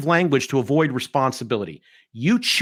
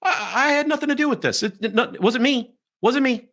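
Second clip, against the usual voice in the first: higher, whiny mock protest of innocence; mocking innocent denial; 9 semitones higher than usual. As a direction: play the blameless guy crying it wasn't me. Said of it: "This guy's blameless".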